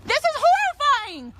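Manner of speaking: real panicked crying, begging to be left alone; tearful mother pleading with the men following her; crying in distress. Real, not acted. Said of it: "She's crying".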